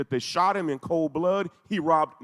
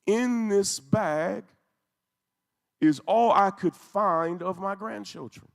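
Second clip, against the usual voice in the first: grieving grandmother's words; 4 semitones higher, 3 dB louder, slower than usual. Retold or imitated. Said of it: "And she's screaming".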